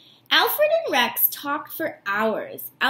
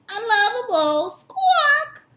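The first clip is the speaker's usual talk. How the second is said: high parrot chant, squawk pitched higher; 8 semitones higher, 4 dB louder, slower than usual. Acted. Parrot mocking the dog, high and squawky. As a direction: screech it out like a taunting parrot. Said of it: "the parrot was always squawking".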